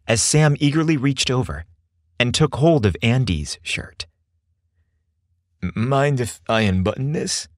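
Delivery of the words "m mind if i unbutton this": hesitant, stammered request; mildly nervous, tentative question. A narrator's reading. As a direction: ask it timidly, stumbling on the first word. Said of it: "he asked nervously".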